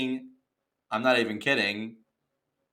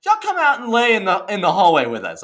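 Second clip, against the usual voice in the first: mock yell; 8 semitones higher, 8 dB louder than usual. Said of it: "yelling at us".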